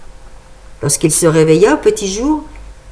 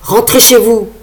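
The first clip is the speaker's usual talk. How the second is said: put-on raspy old man shout; 3 semitones higher, 4 dB louder than usual. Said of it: "cria-t-il d'une voix rauque".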